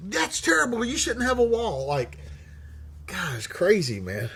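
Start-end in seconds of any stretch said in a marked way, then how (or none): 0.1-1.9 higher mock whine of the other side; a higher, hammed-up mock of an anti-wall critic; mocking opponent. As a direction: caricature the scolding critic.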